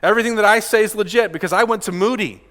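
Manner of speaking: mock boasting about credentials; self-congratulatory. Pastor mimicking himself bragging about his degree, self-congratulatory. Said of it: "pat myself on the back and say".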